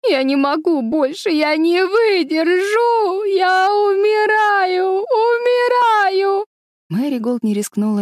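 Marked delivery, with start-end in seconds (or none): 0.1-6.5 всё выше и громче, медленно, с рыданием; истерично вопить, будто умираешь; вопит как сумасшедшая. A narrator's reading. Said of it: "завопила, как сумасшедшая". (истеричный плачущий вопль девочки)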